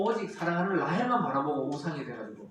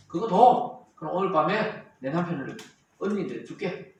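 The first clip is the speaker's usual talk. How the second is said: mock bargaining sister; 7 dB louder than usual. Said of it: "이렇게 하면서 막 거래를 하고".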